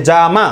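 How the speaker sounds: "জামা" with a slight break after "জা"; syllable by syllable. Shown as a demonstration. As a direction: separate "জা" from "মা" to show two beats. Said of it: "যা বলে একটু থামতেই হবে".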